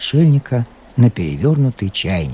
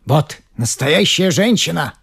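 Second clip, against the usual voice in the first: put-on shouting old man; 7 semitones higher than usual. A narrator's reading. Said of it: "закричал Берман".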